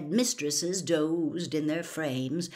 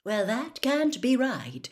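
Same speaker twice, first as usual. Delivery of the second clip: annoyed; 6 semitones higher than usual. A narrator's reading. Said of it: "she said, annoyed".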